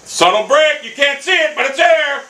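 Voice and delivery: high, insistent complaint; exasperated outcry. Real, not acted. Gamer protesting the hidden break, exasperated.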